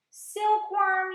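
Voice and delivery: loud urgent yell for help. A narrator's reading. James yelling to the silkworm, loud and urgent. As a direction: shout across the deck to Silkworm. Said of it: "yelled James".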